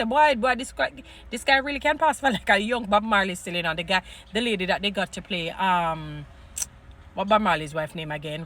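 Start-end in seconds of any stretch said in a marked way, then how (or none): 0.0-3.7 excited. Retold or imitated. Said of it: "I say".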